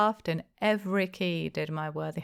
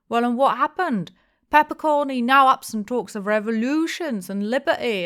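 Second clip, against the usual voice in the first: louder, higher indignant innkeeper; blustering rant; 5 semitones higher, 8 dB louder than usual. A narrator's reading. Innkeeper ranting to the tavern about spies, loud. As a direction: rant at the whole room.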